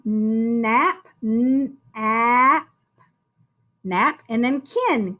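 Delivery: "Nap" repeated then "kin" split off; syllable by syllable. Shown as a demonstration. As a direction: chunk the word into syllables. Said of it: "two-syllable word".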